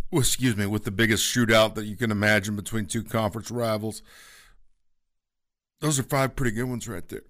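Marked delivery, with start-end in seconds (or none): 5.8-7.2 talking through hiccups; hiccupping mid-sentence. Real, not acted. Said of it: "I'm sorry, I got the hiccups".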